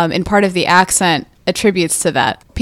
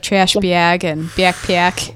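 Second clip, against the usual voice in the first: put-on Wisconsin accent; much slower than usual. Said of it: "they say, like".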